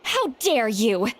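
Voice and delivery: mock offense. Asked her age, feigns offense.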